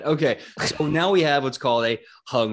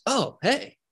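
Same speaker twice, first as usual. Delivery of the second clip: pious chaplain bro. Acted. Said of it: "Quentin looks at everyone and goes".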